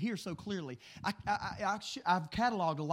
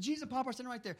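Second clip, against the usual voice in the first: son's words; 5 semitones higher, faster than usual. Retold or imitated. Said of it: "he said".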